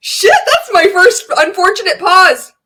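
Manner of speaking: real laughter breaking through the words; giggling at her own slip; laughing at herself. Real, not acted.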